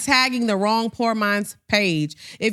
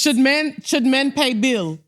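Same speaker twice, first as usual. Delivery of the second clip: reading a fake page's caption, laughing through it; half-laughed mock caption read; mock broken-English caption. Cohost mocks fake page caption, laughing. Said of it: "'Cause their captions are like".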